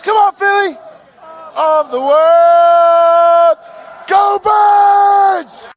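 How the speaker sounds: high loud chant; victory chant shout. Real, not acted. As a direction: roar it at the crowd. Closing parade crowd chant.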